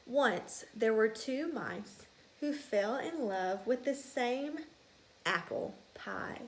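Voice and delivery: slow storybook telling; reading to children. A narrator's reading. Teacher opening the story to her class, slow and hushed. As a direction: draw the kids into the tale.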